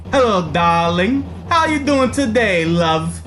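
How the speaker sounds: lightly put-on fancy lady, slow and genteel; fancy girl. Streamer slips into his fancy girl voice, slow and lightly put-on. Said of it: "It was the fancy girl".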